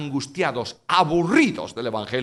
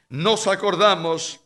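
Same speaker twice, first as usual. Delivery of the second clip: nostalgic longing; 3 semitones higher, 5 dB louder than usual. Acted. People longing for Egypt.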